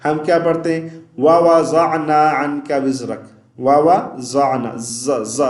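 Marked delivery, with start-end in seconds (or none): 1.2-3.6 وَوَضَعْنَا with ض said as a plain z; demonstrating the common mistake, وَوَضَعْنَا with z; wrong z sound. Shown as a demonstration. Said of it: "واد نہیں پڑھ رہے بلکہ زا پڑھتے ہیں". 4.8-5.4 buzzing z sound. Shown as a demonstration. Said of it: "یہ آواز آتی ہے".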